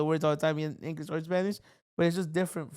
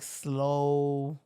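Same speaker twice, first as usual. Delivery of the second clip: slow coastal drawl; 3 semitones lower than usual. Shown as a demonstration. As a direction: stretch "slow" out in an easy drawl. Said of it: "What's coastal?".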